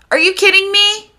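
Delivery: high-pitched incredulous question; outraged disbelief. Real, not acted. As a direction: react appalled, pitch shooting up. Outraged at what boys did.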